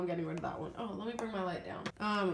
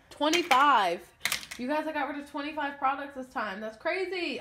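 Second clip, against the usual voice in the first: higher, louder amazed count; amazed excitement; 5 semitones higher, 6 dB louder than usual. Real, not acted. Telling viewers how many products she dumped, amazed and excited. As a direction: marvel at how many there are.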